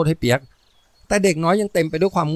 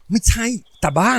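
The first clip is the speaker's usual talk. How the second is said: raised, cross big-sister rebuke; irritated, higher-pitched snap; annoyed hissed correction; 8 semitones higher than usual. A narrator's reading. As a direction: scold the kid brother crossly. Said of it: "พี่สาวกระซิบในตาเขียวด้วยความฉุน".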